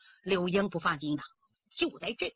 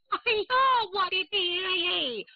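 grief-stricken cry; 6 semitones higher than usual. A narrator's reading. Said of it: "刚呼一声". (悲痛地高声哭喊)

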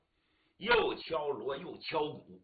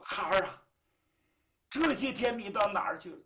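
louder, higher cry of surprised delight; startled joy; 4 semitones higher, 6 dB louder than usual. Acted. Father to his returning daughter, startled joy. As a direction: greet a lost child with relief. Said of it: "又是惊又是喜呀".

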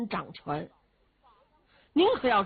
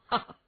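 hearty laugh. Acted. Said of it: "把北平王罗毅给说乐了".

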